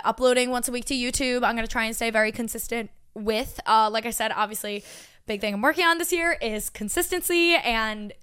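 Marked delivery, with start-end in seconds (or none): 5.3-8.1 talking through a burp; words pushed out around a burp. Real, not acted. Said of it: "This Doctor Pepper's making me burp".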